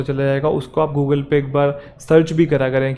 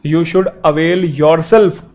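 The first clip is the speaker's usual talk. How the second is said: very slow, each word drawn out; slow dictation; 3 dB louder, much slower than usual. Shown as a demonstration. Teacher dictating the corrected sentence slowly. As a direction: spell it out slowly for the class. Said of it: "You है तो yourself आएगा".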